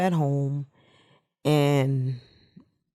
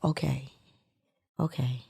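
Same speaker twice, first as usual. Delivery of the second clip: soft, calming herself down quietly; calm self-reassurance; 5 dB quieter, faster than usual. Retold or imitated. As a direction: talk yourself into calm, gently. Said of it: "like a calmness".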